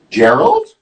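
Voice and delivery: tentative calling out. Acted. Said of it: "calls out to his friend".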